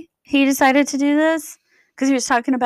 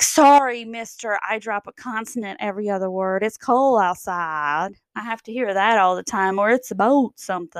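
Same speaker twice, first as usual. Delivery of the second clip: mock defiant. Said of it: "I'm like".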